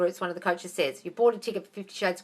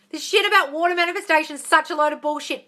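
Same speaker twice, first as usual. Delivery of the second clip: raised, higher voice, fed up; exasperated rant; 7 semitones higher, 6 dB louder than usual. Real, not acted. Coach debunking water manifestation, exasperated loud rant. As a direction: rant loudly in real exasperation.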